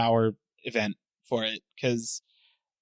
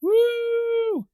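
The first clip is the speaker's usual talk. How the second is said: excited whoop. Real, not acted. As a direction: cheer it out with real excitement. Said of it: "very excited there".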